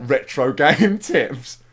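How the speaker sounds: loud, drawn-out mock announcement; mock announcer. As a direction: announce it grandly while breaking into a laugh. Mock-announcing pro tips, laughing.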